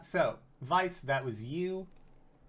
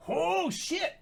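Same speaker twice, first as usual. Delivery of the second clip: surprised. Real, not acted. Big roll at the table.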